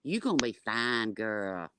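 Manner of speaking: sassy. Acted. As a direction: talk with big sassy attitude. Sassy voice to grandma.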